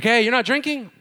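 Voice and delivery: high, loud, incredulous; friend's half-playful challenge; party friend, surprised. Retold or imitated. Party friend at the graduation party, loud and incredulous.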